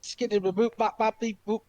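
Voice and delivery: playful robot beeps; toy robot voice. Pretend. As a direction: beep like a little robot. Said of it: "I did that one on purpose".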